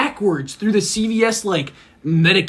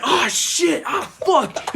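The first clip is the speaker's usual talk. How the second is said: retold panic; 9 semitones higher, much slower than usual. Brother reacts to crashing car.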